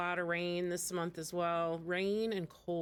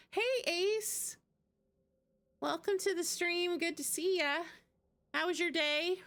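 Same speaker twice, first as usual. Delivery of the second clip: bright, higher welcome to a viewer; cheerful greeting; 9 semitones higher than usual. Real, not acted.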